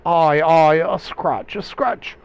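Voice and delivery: loud, high theatrical brushing-off; hammed-up dismissal of an injury; downplaying it. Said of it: "he downplays it".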